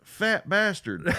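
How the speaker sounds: slow, high mock Scots growl; Fat Bastard impression. Cohost imitates Fat Bastard's Scottish voice, slow. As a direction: ham up the Scottish villain. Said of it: "Scotland is like".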